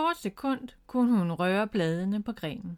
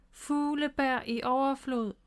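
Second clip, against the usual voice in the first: high, slow, chanted call; called-out spell; 5 semitones higher than usual. A narrator's reading. Bob aims his wand at the bird, calling a spell. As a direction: proclaim the spell, stretching each word. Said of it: "råbte han".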